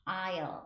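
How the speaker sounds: "I'll", the word aisle with no S sound; silent S in aisle. Shown as a demonstration. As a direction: model "I'll" clearly as a pronunciation example. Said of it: "이렇게 얘기하고요". ("I'll"처럼 S 없이 또박또박)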